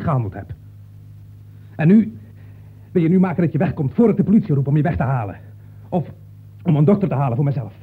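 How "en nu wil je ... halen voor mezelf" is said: angry order. Acted. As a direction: throw him out before he calls the police. Ordering the visitor out.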